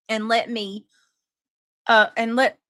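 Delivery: reading through hiccups; words broken by hiccups. Real, not acted. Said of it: "I got the hiccups".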